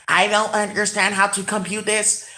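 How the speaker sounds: lightly robotic, evenly measured complaint; a hint of a baffled computer, word by word; imitating odd talk. Imitating someone who cannot compute this, stiffly measured voice. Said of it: "who talks like that?".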